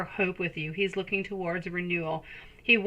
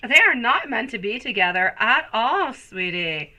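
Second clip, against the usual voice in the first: dramatic reaction; 3 semitones higher, 6 dB louder than usual. Real, not acted. Reader reacts dramatically to the reading.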